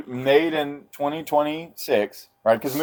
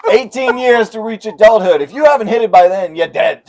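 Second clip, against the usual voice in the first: sleazy pickup line; 11 semitones higher, 10 dB louder than usual. Retold or imitated. Continues sleazeball voice.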